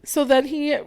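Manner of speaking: high, drawn-out lament; moved, slow high-pitched whine; heartbroken wail. Real, not acted. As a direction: stretch it out high, overcome with feeling. Moved by the kept dream house.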